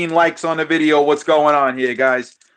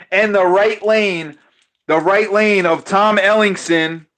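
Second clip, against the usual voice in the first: live race commentary; play-by-play; 3 semitones higher than usual. Acted. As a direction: call the race like an announcer. Calls the dice race live.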